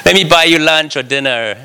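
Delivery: high, far-off excited shout; hammed-up cheering friend. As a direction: burst out with joy. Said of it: "they're like".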